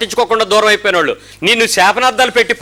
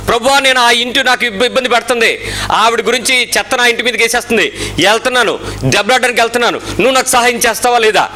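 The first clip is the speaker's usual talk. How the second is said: mock prayer; 4 semitones higher than usual. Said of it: "ఏం చెప్తాడు మీరు వెళ్ళి ఇప్పుడు అడిగితే?".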